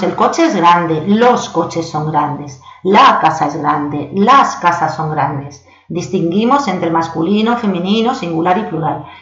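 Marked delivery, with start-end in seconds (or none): 0.0-5.7 slow, deliberate teacher read of the examples; slow model sentences; slow Spanish examples. Shown as a demonstration. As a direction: lay each article out slowly. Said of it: "En español decimos".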